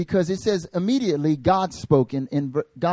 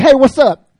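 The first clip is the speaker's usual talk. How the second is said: much higher, louder, a clueless loud hello; loud goofy greeting; 10 semitones higher, 13 dB louder than usual. Retold or imitated. Tyler bursting into the meeting, loud goofy hello. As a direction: blurt it out like the oblivious friend. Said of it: "he's like".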